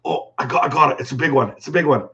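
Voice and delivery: lightly voiced angler landing a fish; a hint of Jay, excited over a big catch; Jay Siemens impression. Streamer imitating his friend Jay catching a fish, lightly voiced. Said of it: "here's my best Jay Siemens impression".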